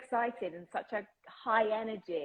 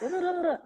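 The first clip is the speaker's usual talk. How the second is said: high, rapid repeated tongue babble; demonstrative overworked British-mouth noise; busy British tongue noise; 10 semitones higher than usual. Shown as a demonstration. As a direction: make the tongue do too much. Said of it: "Brits are doing too much".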